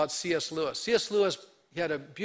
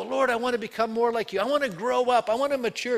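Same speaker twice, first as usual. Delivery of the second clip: higher, louder eager plea to the Lord; eager prayer; 5 semitones higher, 4 dB louder than usual. Retold or imitated. Believers praying to the Lord, eager louder plea. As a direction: beg to grow, lifted and loud. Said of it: "all of us go".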